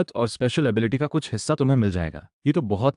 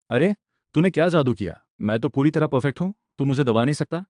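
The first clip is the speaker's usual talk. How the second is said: higher-pitched, indignant disbelief; alarmed protest; 4 semitones higher than usual. Acted. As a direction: protest as if your power is suddenly slipping. हारता मालिक घबराकर विरोध करता है. (घबराहट भरा हैरान विरोध)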